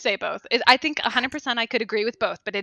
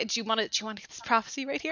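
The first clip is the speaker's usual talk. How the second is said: street dealer pitch; 6 dB quieter, faster than usual. Pretend. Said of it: "They open up their trench coat".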